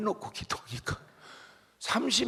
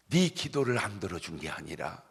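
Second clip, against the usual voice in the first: lightly voiced God, lower and unhurried; God replying; 4 semitones lower, 3 dB quieter than usual. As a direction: answer as the Lord, slowing into the punchline. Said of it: "주님이 금방 말씀하시는 거예요". (주님이 대답하시듯 낮고 느긋하게)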